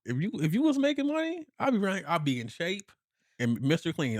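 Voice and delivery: high-pitched, emphatic; excited high rant. Real, not acted. Husband telling wife what he'd do, pitched high. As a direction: push it up with glee.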